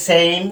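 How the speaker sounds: "সেম" with A as the letter name "ei"; long A sound. Shown as a demonstration. Teacher giving examples of alphabetical sound, long A in "সেম". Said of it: "alphabetical যে sound আছে".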